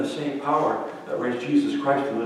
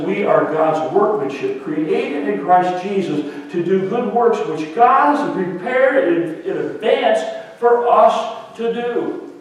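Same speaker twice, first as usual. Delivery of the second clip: scripture reading; 3 semitones higher, slower than usual. Acted. Reads scripture slowly.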